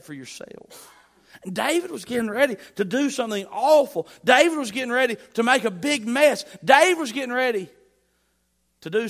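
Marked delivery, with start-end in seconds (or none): 1.4-7.7 louder and higher, building to a shout; rising preaching shout. Real, not acted. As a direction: drive it home at full force.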